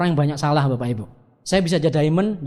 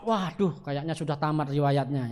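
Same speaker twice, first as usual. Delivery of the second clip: dismayed shock; 4 semitones lower, 5 dB quieter, slower than usual. Retold or imitated. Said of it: "jangan langsung shock".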